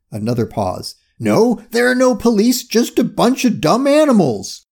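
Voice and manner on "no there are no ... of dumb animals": raised, higher-pitched crook's voice; crook on the phone. A narrator's reading. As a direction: report urgently to the boss.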